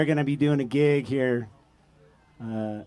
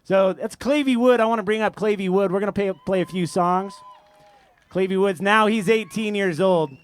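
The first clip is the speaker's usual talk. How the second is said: announcing; 4 semitones higher than usual. Real, not acted. Introducing singer to crowd.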